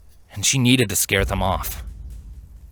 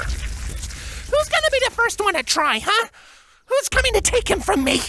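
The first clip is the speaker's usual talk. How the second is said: vicious taunt. Acted. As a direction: taunt the guards one by one. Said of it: "Twilight viciously taunted".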